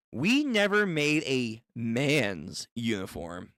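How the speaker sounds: "man's" drawn out slowly with weight; slow line with "man's" stretched for emphasis; suggestive stress on "man's". Acted. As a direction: linger slowly on the word "man's". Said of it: "why you gotta say it like that".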